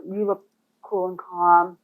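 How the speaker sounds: "cool and calm" said slowly and evenly. Shown as a demonstration. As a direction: ease off the pace, unhurried. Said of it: "slow things down and appear cool and calm".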